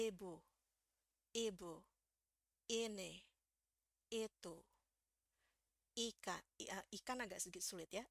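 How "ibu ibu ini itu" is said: i of ibu, ini and itu made short and lax. Shown as a demonstration. Teacher reads ibu, ini, itu with the English short I. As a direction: ibu with a quick relaxed short i. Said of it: "jadi bacanya jadi".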